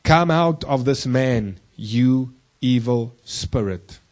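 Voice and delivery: slow, commanding Jesus casting out a spirit; stern command. Retold or imitated. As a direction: order the spirit out, slowly and firmly. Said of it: "For Jesus said to him".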